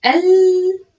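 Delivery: al- held long and high; drawn-out al. Shown as a demonstration. Teacher drawing out al- for the pupil. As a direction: stretch the al- and stop on the lam. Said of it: "وقفت عند اللام مرتين".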